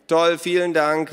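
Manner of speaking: high, loud, drawn-out shout; gerufen. A narrator's reading. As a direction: call it out loudly and slowly. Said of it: "rief Naru". (laut und gedehnt gerufen)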